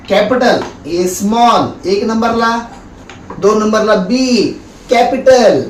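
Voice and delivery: slow, sweet coaxing teacher voice; lovingly. Acted. Husband shows wife how to teach kids, sweetly slow and coaxing. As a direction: coax the little kids gently, stretching each letter. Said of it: "जरा प्रेमानं सांगतो".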